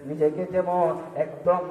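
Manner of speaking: rhythmic sing-song sermon cadence; melodic preaching. Acted. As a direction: preach in a lilting chant, stretching phrase endings.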